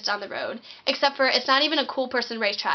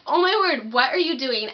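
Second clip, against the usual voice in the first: scandalized onlookers; 2 semitones higher, 3 dB louder than usual. Retold or imitated. Disapproving diners.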